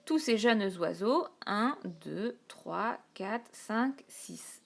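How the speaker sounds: each syllable marked with a pause; teacher counting along the verse. Shown as a demonstration. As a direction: count it out slowly. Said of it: "donc ça nous fait six ici".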